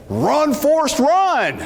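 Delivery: lightly voiced mock Forrest Gump cry, high and urgent; a playful hint of Forrest Gump; Forrest Gump quote. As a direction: shout it like the movie line. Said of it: "she looks at me and says".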